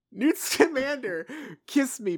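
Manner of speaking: demanding. Shown as a demonstration. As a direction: say it like an order. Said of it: "a more demanding, uh, a more serious one".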